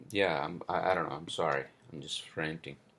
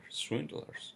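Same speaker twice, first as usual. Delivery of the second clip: high breathless swindlers with a rise; whispered outrage, voice jumping up; incredulous whisper; 9 semitones higher, 4 dB quieter than usual. Real, not acted. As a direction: spit swindlers out in disbelief. Ranting about swindling mechanics.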